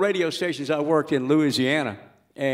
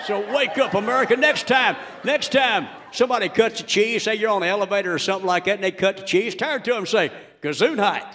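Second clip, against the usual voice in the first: Earl Pitts rant; 4 semitones higher than usual. Acted. Earl Pitts radio rant bit.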